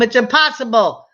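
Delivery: mother joking to her son about his age; mock disbelief. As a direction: tease him that it can't be. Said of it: "And I told him".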